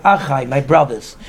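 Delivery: low, slow and tender; warm address. Retold or imitated. Yaakov addressing the shepherds as brothers, warmly. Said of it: "He spoke with warmth".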